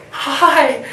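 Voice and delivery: high, loud, giddy fan greeting; squeaky-high fanboy hello, hammed up; starstruck fanboy. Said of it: "all of a sudden I'm like a fanboy".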